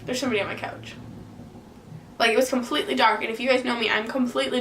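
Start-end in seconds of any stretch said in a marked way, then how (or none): 0.0-0.9 hushed frightened realization; quiet, stunned and scared. Retold or imitated. Retold seeing someone on couch.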